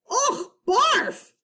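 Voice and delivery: very high, hammed-up barf; kid's over-the-top yuck; mock disgust. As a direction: gag at the idea. Disgust at teacher seat.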